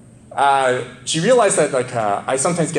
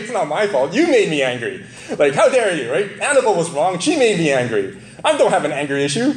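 a lightly hammed-up defensive protest, a touch higher; mock indignant blame; 5 semitones higher than usual. Pastor acting out blaming his daughter, mock indignant. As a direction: play the self-righteous husband blaming his daughter. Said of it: "I could say".

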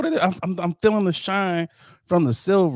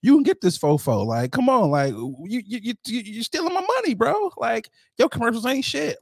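playful confrontation in a put-on voice, climbing higher; four four four voice; 6 semitones higher than usual. Podcaster pretends to confront a commercial voice actor, mock four four four voice. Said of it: "with my four four four voice".

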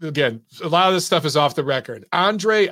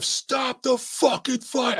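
retold scream; 8 semitones higher, 4 dB quieter, much slower than usual. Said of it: "was screaming at the ref".

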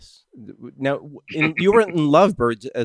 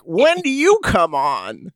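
puzzled grandmother; 6 semitones higher, much slower than usual. Retold or imitated. Grandmother asking about movie.

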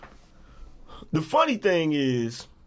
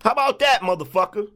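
loud, higher, repeated jeering question; loud taunt; 5 semitones higher, 5 dB louder than usual. Real, not acted. Streamer taunting a troll he just exposed, loud gloating jeer. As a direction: throw it at them again and again, gloating.

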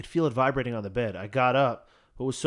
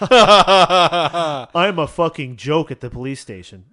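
laughing mock whine; 2 semitones higher, 11 dB louder, much slower than usual. Mocking boyfriend, laughing loudly.

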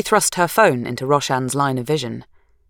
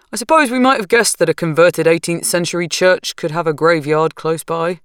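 lightly voiced easygoing husband; calm husband; 3 semitones higher, 5 dB louder than usual. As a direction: keep it unhurried and mild. Narrator voicing Roshan.

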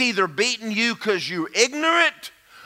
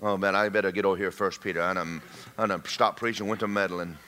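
sheepish aside; 11 semitones lower, 6 dB quieter than usual. Real, not acted. Comic aside to himself after teasing.

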